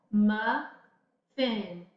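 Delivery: slow Muffin, dwelling on the short u; careful demo word. Shown as a demonstration. Teacher sounding out Muffin to check its vowel. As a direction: draw out Muffin to hear the vowel. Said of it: "does it have a short vowel?".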